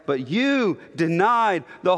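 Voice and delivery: "you" stressed as an accusation. Shown as a demonstration. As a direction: press firmly on "you". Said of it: "you is emphatic every time".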